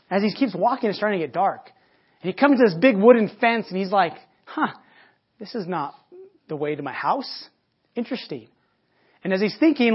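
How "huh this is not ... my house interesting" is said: mock puzzlement. Rabbi puzzled at wrong turn.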